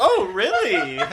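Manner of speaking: very high-pitched, put-on, feigned astonishment. Retelling own reply to another speaker's remark: retelling feigned surprise. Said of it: "and I feigned, like, surprise".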